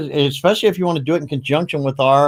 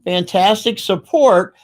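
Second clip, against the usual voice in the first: FANTASTIC SUPPORT said slowly and higher; emphatic repeat; 4 semitones higher, 3 dB louder, slower than usual. Real, not acted. Host repeating his praise of the support, slow and emphatic. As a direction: lift and stretch FANTASTIC SUPPORT.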